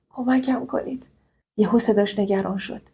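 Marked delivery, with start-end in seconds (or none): 0.1-1.1 choked with tears. Acted. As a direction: beg for help, voice breaking. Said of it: "با صدایی که دنیا بغض داشت". (با بغض و التماس)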